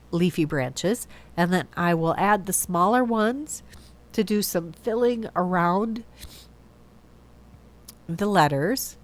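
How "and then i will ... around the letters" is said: blocked nose from a cold; stuffy nose. Real, not acted. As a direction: talk through a stuffy nose. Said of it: "I'm sorry I sound so stuffy".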